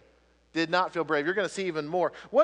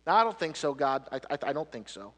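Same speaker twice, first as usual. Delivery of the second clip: reluctant Gideon; 5 semitones lower than usual. Acted. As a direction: back away, stammering. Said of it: "we're kinda like Gideon".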